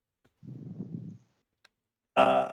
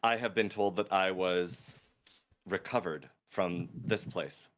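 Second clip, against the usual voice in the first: a touch higher, softer voice; soft-spoken character; 7 semitones higher, 9 dB quieter than usual. Acted. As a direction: speak as a polite stranger. Player's character voice.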